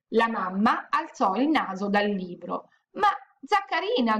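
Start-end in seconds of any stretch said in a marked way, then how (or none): 2.9-4.2 moaning. Acted.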